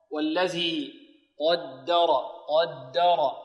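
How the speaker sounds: slow "قدر" with heavy qaf and ra, light doubled dal. Shown as a demonstration. Teacher models the verse, heavy-light-heavy "قدر". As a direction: recite "قدر" as qawd-da-raw, measured. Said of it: "والدال هنا بارك الله فيكم ماذا؟ مرققة".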